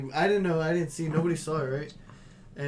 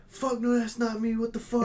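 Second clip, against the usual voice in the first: high, pushy mock protest; defiant denial; 7 semitones higher than usual. Busboy caught on camera lying to the manager, high defiant protest. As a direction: fire it back high and defensive.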